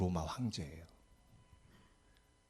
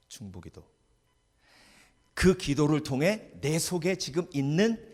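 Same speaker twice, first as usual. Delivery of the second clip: usual speaking voice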